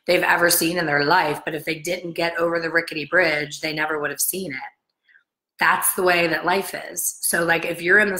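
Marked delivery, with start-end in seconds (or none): 3.6-4.6 soft whisper. Acted. Dramatic point about the bridge.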